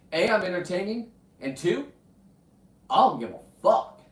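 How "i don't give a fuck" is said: loud, odd put-on voice; loud weird-voice defiance. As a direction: spit it out in a weird voice. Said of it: "I just did a weird voice".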